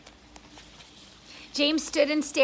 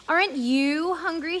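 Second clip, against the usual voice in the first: spider asking suddenly; 5 semitones higher than usual. Acted. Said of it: "she asked suddenly".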